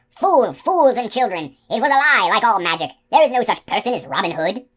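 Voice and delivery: high, loud furious shouting; captain screaming at his deserting outlaws, high and loud; angry scream. A narrator's reading. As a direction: rage at the fleeing men. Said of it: "Captain Coley screamed".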